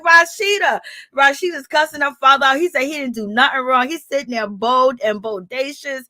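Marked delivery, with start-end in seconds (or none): 0.0-0.8 shocked scolding call. Retold or imitated. Shocked reaction while watching.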